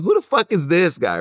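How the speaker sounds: high, loud, stunned disbelief; mock incredulous outburst. Retelling the crowd's shock at his question, high and loud. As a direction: blurt it like the whole room is shocked. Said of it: "everybody around me was like".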